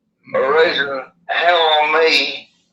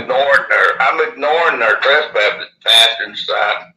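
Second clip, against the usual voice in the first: slushy lisp from missing teeth; lisping through a gap in the teeth. Real, not acted. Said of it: "Excuse my lisp".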